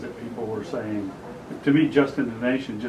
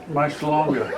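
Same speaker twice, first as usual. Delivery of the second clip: cracking up on the words; laughing; 2 semitones higher, 4 dB louder, slower than usual. Real, not acted. Friend repeating a rude-sounding name joke, laughing. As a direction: repeat it through real laughter.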